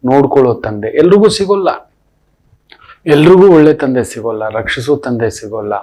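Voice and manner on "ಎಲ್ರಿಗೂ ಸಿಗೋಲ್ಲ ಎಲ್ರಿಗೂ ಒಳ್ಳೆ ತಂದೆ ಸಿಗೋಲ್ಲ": emphatic outcry. Real, not acted. Preacher repeats the point.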